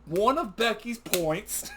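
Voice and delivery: can barely get it out for laughing. Real, not acted. Laughing fit while recapping.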